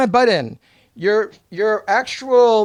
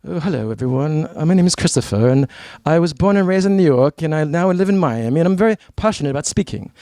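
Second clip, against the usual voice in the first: low, lifeless self-introduction; dull low intro voice; 5 semitones lower than usual. Shown as a demonstration. Coach showing the audience a dull speaker, in a low flat drone. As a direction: sound bored and sleepy while saying you're passionate. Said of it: "do you hear my tone of voice?".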